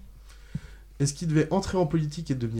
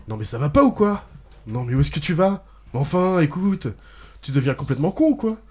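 bad acting; 3 semitones higher, 4 dB louder than usual. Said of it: "c'est les répliques mal faites parce que je joue mal".

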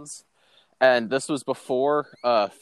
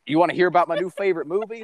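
mock excited; 5 semitones higher, much faster than usual. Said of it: "just like".

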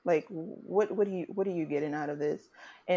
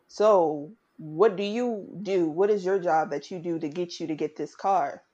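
suspicious cop; 3 dB louder than usual. Retold or imitated. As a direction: drag out the policeman's accusing question. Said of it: "the man was like".

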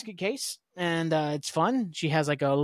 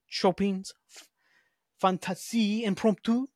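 Chopin's Fantasie Impromptu said slowly in a put-on French manner, higher; fancy French pronunciation; 3 semitones higher than usual. Shown as a demonstration. Podcaster naming the piano piece, in a mock French accent. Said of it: "I said it that way for some reason".

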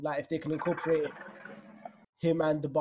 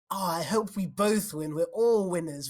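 mocking soppy voice. Mocking imagined Arsenal players' words.

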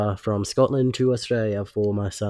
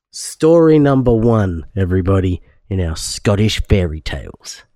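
put-on Scottish accent; 4 dB louder than usual. Reading a Scottish tale to listeners, Scottish accent. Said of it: "let's hear your best Scottish accent".

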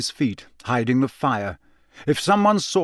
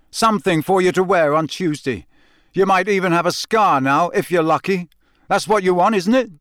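furious shouting; 7 semitones higher, 5 dB louder than usual. Acted. Harry furious at Ron.

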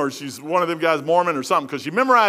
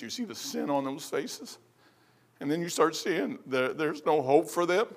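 soft, low, halting reflection; hushed and solemn; 5 semitones lower, 9 dB quieter than usual. Real, not acted. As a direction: let it sink in quietly, with long pauses. Turns solemn about lost people.

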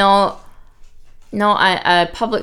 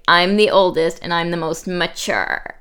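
vocal fry; 2 semitones lower than usual. Retold or imitated. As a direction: creak the words like a bored reality star. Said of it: "she says this in an amazing vocal fry".

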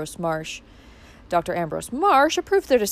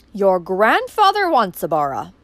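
slow, louder, cornered answer; desperate; 5 dB louder than usual. Acted. Uncle cornered by Valancy's question, desperately. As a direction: blurt the name out in desperation. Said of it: "he said desperately".

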